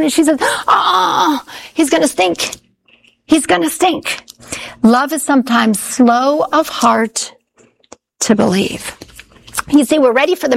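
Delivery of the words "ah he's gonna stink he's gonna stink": Martha's whiny protest. Retold or imitated. Martha objecting at the tomb.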